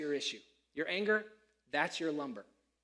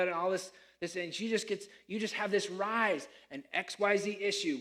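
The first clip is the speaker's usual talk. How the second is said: louder, worked-up grumbling complaint; husband's rant; 3 dB louder than usual. Pretend. Husband griping to himself about his wife, worked-up and louder. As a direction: vent like a fed-up husband.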